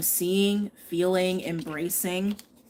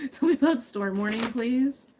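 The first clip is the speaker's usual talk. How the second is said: higher, laughing while begging the cards; giggly please, pitched up; 6 semitones higher, 4 dB louder than usual. Real, not acted. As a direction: beg through a laugh, half pleading.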